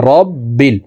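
রব্বিল with the b held twice; রব্বিল, doubled b. Shown as a demonstration. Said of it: "জেরওয়ালা বাটি আবার এই জজমওয়ালা লামকে একবার ধরবে".

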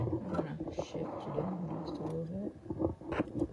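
slow whispered aside; whispering. Real, not acted. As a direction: whisper it off mic. Aside while adjusting the camera.

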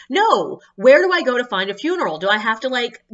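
mock oblivious enthusiasm; eager clueless tourist. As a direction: chirp it out keenly. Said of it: "she's like".

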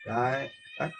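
usual speaking voice

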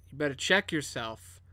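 low, quiet threat; menacing warning. Acted. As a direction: stare him down with your voice, soft and low. Intimidating a man in character.

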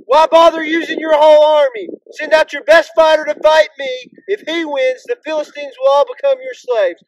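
bold shout. Acted. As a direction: call out boldly across a battlefield to taunt an army. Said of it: "boldly shouted".

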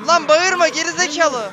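loud, high, slow angry shout; angry yell. Real, not acted. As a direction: snap at the screaming patients. Çığlık atan delilere kızıyor. (delilere kızgın bağırış)

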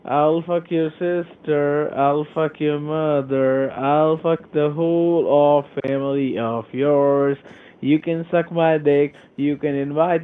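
slow, drawn-out threats; deliberate abuse. Real, not acted. Agent retaliating at the prank caller, slow and deliberate. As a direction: spell out each insult slowly.

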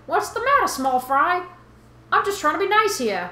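high-pitched Boston fish guy; game fish with a Bostonian twang; Boston accent. Acted. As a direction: put on a cocky Boston accent. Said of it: "swam all the way from Boston".

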